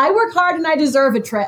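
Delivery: high, confident, emphatic voice.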